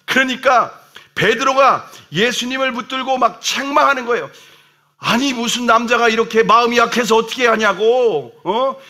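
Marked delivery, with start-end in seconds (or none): 5.0-8.8 scolding Peter. Retold or imitated. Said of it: "막 예수님을 혼내고 책망하고".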